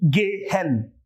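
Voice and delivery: slow, drawn-out syllables for a beginner; very slowly. Shown as a demonstration. Teacher slowly sounding out a word for beginners. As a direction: stretch each syllable so a beginner can hear it. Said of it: "say it very slowly".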